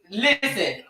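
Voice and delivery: high, loud, coaxing call to a viewer; urging call-out. Real, not acted. Host urging a shy viewer onto the show, calling out. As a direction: call out and urge them to join.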